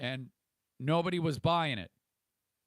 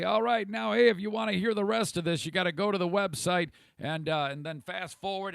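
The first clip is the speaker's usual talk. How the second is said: mock announcer pitch; 5 semitones higher, 3 dB louder than usual. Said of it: "and say".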